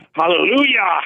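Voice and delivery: high joyful hallelujah; ecstatic praise. Pretend. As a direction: cry it out in rapture. Releasing Holy Ghost language.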